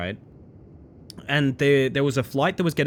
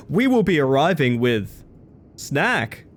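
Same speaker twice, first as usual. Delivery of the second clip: mock flight attendant; slower than usual. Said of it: "mimicking the attendant announcement".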